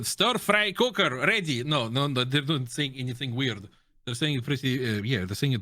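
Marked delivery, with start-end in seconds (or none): 0.0-1.6 slow, higher-pitched crew report; a hammed-up radio crew member; mock crew callout. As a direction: announce nonsense like a tank crew ready check. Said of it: "It doesn't sound like they are saying some".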